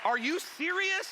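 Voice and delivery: high, loud disbelief; mock incredulity. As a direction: demand it in comic outrage. Mock outrage at pineapple on pizza.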